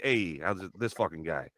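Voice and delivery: lightly voiced mafia tough guy; a hint of East Coast mobster. Shown as a demonstration. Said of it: "like, mafia dead tongue thing".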